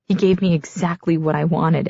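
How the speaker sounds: ordinary delivery, nothing marked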